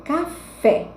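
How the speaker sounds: teacher showing the strong last syllable, caFÉ; stress on last syllable. Shown as a demonstration. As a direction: lean hard on the final fé of café. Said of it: "a última tá mais forte".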